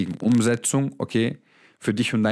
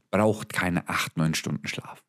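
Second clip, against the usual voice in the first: slow and lower, sinking to quiet on Schlaf; slow, dropping emphasis; 6 semitones lower, 4 dB quieter, slower than usual. Real, not acted. Coach firmly telling viewers they need less sleep, slow and sinking. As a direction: lay it down slowly and let it sink.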